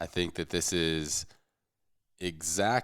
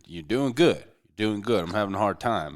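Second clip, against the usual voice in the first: put-on Texas coach accent. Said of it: "that's my coach's accent".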